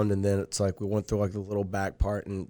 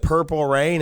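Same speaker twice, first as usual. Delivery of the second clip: the song title called out louder with a rise; excited cheer; 5 semitones higher, 5 dB louder, slower than usual. Real, not acted. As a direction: hype up the song title like a victory shout. Hyped about the drift.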